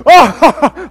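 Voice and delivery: laughing out loud. Real, not acted. Pastor laughing at his own joke, real laugh.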